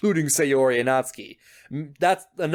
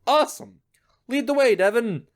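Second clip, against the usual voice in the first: excited whisper; 7 semitones higher than usual. Real, not acted. Excited reaction to choice.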